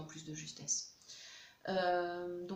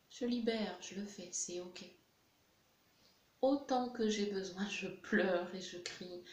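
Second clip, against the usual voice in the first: lightly voiced baby. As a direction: voice the upset infant letting feelings out. Voicing the crying baby in tapping.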